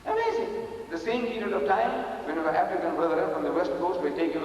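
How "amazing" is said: amazed exclamation. Real, not acted. Preacher marvels at the Malays.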